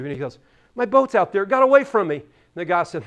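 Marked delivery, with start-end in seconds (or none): 0.7-2.2 put-on high, upset little-boy voice; high kid voice, worried; little kid explaining. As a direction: whine it out like a small child.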